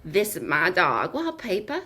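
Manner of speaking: low Jersey attempt sliding into Southern; accidental Southern accent. Shown as a demonstration. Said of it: "why it's coming out Southern".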